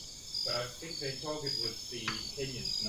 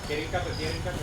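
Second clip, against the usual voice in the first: urgent shout; 6 semitones higher, 5 dB louder, faster than usual. Real, not acted. Under fire, ordering cover.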